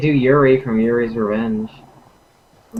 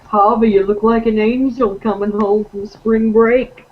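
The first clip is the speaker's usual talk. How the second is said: laughing tease; 8 semitones higher, 5 dB louder than usual. Real, not acted. Teasing another player.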